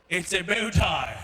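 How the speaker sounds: slow British correction; British schoolboy accent. Acted. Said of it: "I spoke British English".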